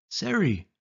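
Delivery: high, drawn-out call into the dark tunnel. Acted. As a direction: call her name into the tunnel, worried.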